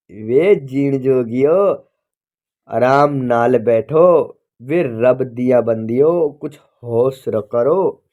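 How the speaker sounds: slow, drawn-out Punjabi plea; pleading old woman. Acted. Old woman begging the quarrelling men to calm down, slow pleading Punjabi. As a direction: soothe the quarrelling men slowly. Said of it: "बीच में बोल उठी".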